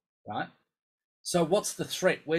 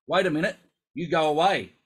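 high, loud alarmed brain voice; the brain yelling in alarm when the playing starts; voice of the panicking brain; 4 semitones higher, 8 dB louder than usual. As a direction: play the brain hitting the panic button. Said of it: "the brain goes".

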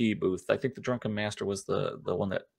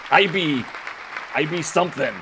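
pirate voice; 6 semitones higher, 4 dB louder than usual. Pretend. Pirate talk from first mate.

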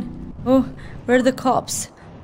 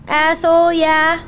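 exasperated; 7 semitones higher than usual. Real, not acted. Cops crash into her.

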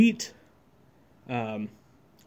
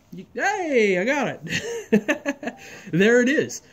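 excited relief; 9 semitones higher, 3 dB louder, much slower than usual. Real, not acted. Finally gets the header attached.

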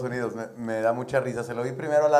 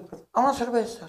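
put-on drunk paisano; 11 semitones higher than usual. Paisano orders beer.

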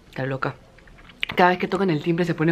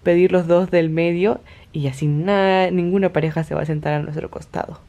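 mustache twirling villain. Retold or imitated. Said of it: "mi gran mente maestra y maligna".

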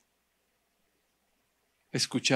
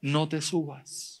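small voice; 6 dB quieter, slower than usual. Acted. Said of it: "yo escuché una voz que dijo".

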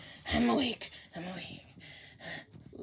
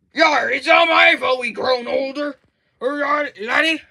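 loud pirate protest; 5 dB louder than usual. Acted.

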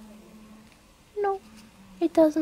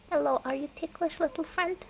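soft, high cooing to a plant; cooing baby talk; 5 semitones higher, 4 dB quieter than usual. Pretend. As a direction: coo to it like a pet. Cooing at a flytrap.

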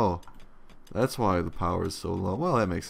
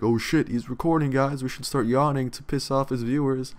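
mock scheming voice; 6 semitones higher, 4 dB louder than usual. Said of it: "They're like".

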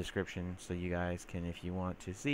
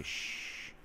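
soft unvoiced shush; gentle shh to calm it; 7 dB quieter than usual. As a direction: hush it like a scared animal. Soothing the Enderman.

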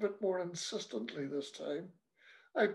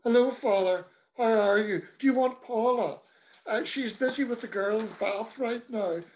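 forced politeness; 3 semitones higher, 3 dB louder than usual. Acted. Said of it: "earnestly hoping this would see him off".

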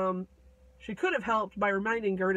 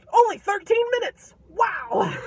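much higher, loud delighted shout; real excited surprise; 11 semitones higher, 10 dB louder than usual. Real, not acted. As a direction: cheer at the clock. Surprised at own short time.

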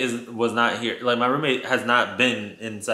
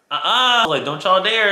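warning ghosts; 6 semitones higher, 5 dB louder than usual. Retold or imitated. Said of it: "I was like".

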